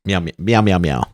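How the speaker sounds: hesitant little meows; nervous cat voice. Pretend. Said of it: "let's take some of our calls".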